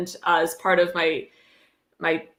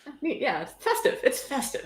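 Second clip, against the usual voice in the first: sarcastic cheer; 4 semitones higher, 8 dB quieter than usual. Pretend.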